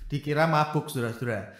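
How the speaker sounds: ordinary talk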